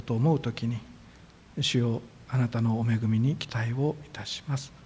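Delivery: prayer. Acted. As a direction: pray humbly to God for the congregation. Opening prayer of the service.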